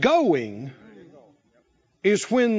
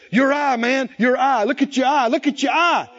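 excited shout. Acted. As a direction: call out in joyful shock. Lepers shouting at healed eye.

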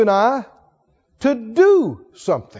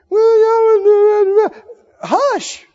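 high, playful hush to the congregation; 10 semitones higher, 3 dB louder, much slower than usual. Real, not acted. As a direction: squeak out a teasing hush. Preacher hushes the congregation.

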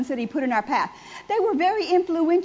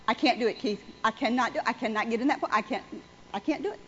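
retold tearful plea; 5 semitones lower, 5 dB quieter, faster than usual. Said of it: "Because I am hysterically crying".

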